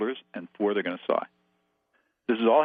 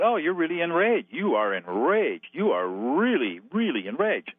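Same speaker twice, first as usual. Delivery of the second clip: reflecting statement; 5 semitones higher, slower than usual. Shown as a demonstration. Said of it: "And I said".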